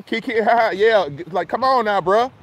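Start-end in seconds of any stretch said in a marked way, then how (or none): 0.0-0.7 mocking laugh. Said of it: "you laughing".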